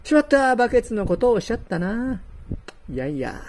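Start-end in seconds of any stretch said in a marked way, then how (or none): 0.0-2.2 sudden loud dismayed exclamation, quickening; dismayed cry. Acted. Carp landing in the bucket, crying out in dismay. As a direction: yelp as the trap springs shut.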